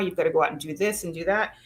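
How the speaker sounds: ordinary talk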